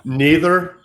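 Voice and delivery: bursts out laughing, then a loud, high "Neither". Real, not acted. Laughing off a cohost's question about Russian accents. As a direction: laugh the one word out.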